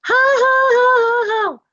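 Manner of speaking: jeering laugh. Acted. Fowls jeer.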